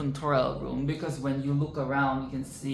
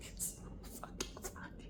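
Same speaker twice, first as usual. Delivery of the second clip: laughing; 20 dB quieter, faster than usual. Real, not acted. Cracking up at the scene.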